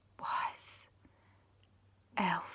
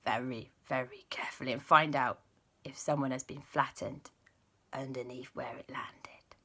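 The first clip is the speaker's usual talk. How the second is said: whispered carefully, barely voiced; hushed whisper; 5 semitones lower, 7 dB quieter than usual. Angelisa warning the children, whispered caution. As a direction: whisper so nobody panics.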